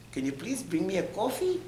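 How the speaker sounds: high-pitched mock demand for service; entitled request. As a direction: put on a pampered, asking voice. Voicing a person demanding service.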